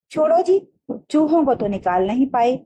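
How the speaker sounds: high, taunting jab, then settling down; the mother needling the father about the rats; sarcastic mother. Acted. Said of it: "माँ ने व्यंग्य से कहा".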